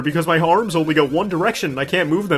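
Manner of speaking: high, loud, wailing cactus voice; whiny cactus worker. Acted. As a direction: blubber like a worker who can't cope. Voicing a crying cactus worker.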